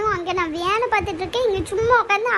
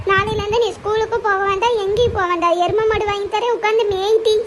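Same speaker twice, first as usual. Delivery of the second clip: angry scolding; 4 dB louder than usual. Acted. Mother scolds angrily.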